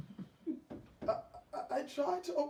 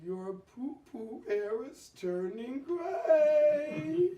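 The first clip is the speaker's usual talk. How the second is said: laughing; 2 semitones higher, 5 dB louder, slower than usual. Acted. Husband laughs at her.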